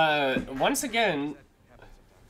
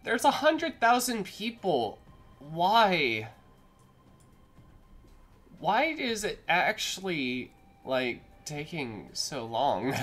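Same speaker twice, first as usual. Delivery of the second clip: exasperated loud; 7 dB louder than usual. Real, not acted. Frustrated outburst.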